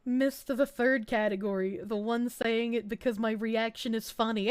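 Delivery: ordinary delivery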